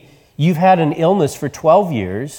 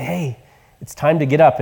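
gentle wake-up. Shown as a demonstration. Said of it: "pull the covers back and say".

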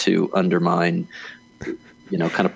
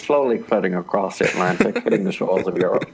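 fast newsreel announcer voice; old-timey radio voice; faster than usual. Pretend. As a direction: rattle it off like a wartime newsreel. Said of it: "an old-timey radio voice".

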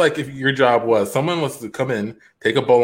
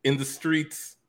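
slow, drawn-out, haunted; slow dramatic; 3 semitones higher, slower than usual. Acted. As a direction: drag it out like a war memory.

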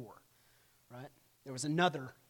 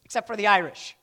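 loud, higher movie-quote yell; mock shout; 7 semitones higher, 13 dB louder than usual. Teacher quoting a Blazing Saddles scene as a loud mock shout. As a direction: bellow the exception like a film character. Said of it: "he goes".

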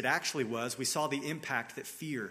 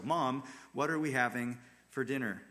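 thankful ask. Shown as a demonstration. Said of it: "That's an attitude of thankfulness".

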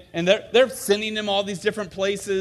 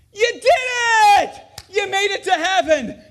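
excited angels; 9 dB louder than usual. Retold or imitated. Angels greet camper.

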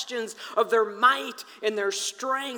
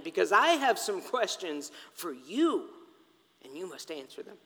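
God answering; 3 semitones lower than usual. Acted. The Lord answering Job from the whirlwind, commanding. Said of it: "the Lord answered Job from the whirlwind".

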